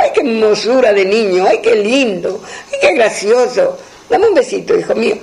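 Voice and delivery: cooing. Acted. Woman coos over the child.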